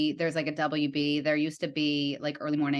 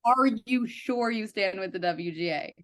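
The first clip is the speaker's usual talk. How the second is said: retold incredulous challenge; 6 semitones higher than usual. Picketer to driver claiming to support the union, retold incredulity.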